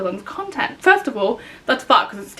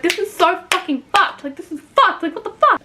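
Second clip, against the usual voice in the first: higher, exasperated ranting; mock angry yelling; 7 semitones higher than usual. Walking around the house, yelling at the news. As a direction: rant it out, raised pitch. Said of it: "yelling and screaming".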